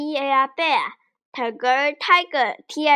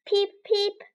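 high little chick peeps; chick peeping; 6 semitones higher, 3 dB quieter than usual. Pretend. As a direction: imitate a chick, two short high peeps. Imitating a chick in animal quiz.

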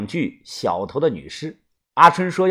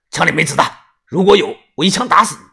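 大声; 3 dB louder, faster than usual. Acted. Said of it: "大声地说".

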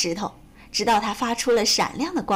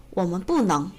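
calm, lower-pitched reply; 5 semitones lower than usual. A narrator's reading. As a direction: answer calmly and evenly. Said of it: "弗洛格平静地说". (平静地说)

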